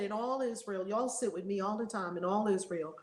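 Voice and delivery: a hint of solemn Christ, calm and low; Christ speaking. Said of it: "And he said".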